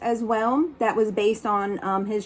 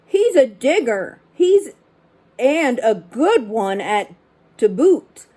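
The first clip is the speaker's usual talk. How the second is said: mild pirate yell; 3 dB louder than usual. Acted. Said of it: "Then he yelled back to his crew".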